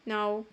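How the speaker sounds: "no" gliding from O to U. Shown as a demonstration. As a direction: model "no" with an English "oh" glide. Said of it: "se lee como O". ("no" con la O como "ou")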